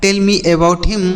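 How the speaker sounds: each English word said slowly for the class; slow model sentence. Shown as a demonstration. Teacher to children, modelling an English sentence slowly. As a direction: spell it out slowly for learners. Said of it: "मुझे उसके बारे में बताओ".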